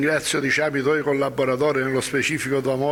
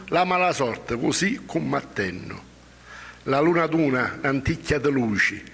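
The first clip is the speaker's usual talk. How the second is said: poem recitation. Acted. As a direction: recite it like verse.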